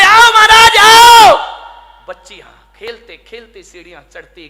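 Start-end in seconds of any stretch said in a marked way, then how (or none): 0.0-1.4 put-on high, loud child calling out; little girl voice. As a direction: urge him upward like an eager girl. Girl calls monk up the steps.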